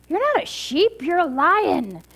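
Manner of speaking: high start, then stretched-out insistence; emphatic correction. Acted. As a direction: set the confused cub straight. Big lion corrects the cub.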